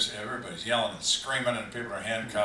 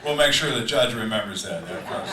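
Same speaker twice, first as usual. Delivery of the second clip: laughing sarcasm; 6 dB louder than usual. Real, not acted. Sarcastic follow-up while laughing.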